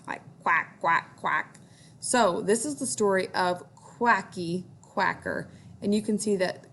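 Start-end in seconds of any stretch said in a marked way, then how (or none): 0.4-1.6 duck quacks. Shown as a demonstration. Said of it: "because ducks like to quack".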